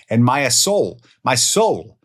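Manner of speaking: loud, high, dramatic Italian-style lift on soul; Italian flair. Real, not acted. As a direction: belt out soul like an Italian opera singer. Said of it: "I don't know why I got Italian there".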